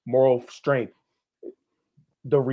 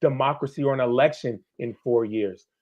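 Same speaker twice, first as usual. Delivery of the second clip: fired up; 3 semitones higher, much faster than usual. Real, not acted. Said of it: "I'm getting all fired up now".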